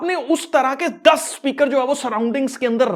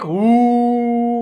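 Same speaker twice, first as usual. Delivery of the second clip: long, level droning hoo; imitated classroom murmur. Teacher mimicking children all talking in class, drawn-out droning hoo. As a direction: imitate a room's indistinct hum, held on one note. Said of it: "एक whispering की sound जो है".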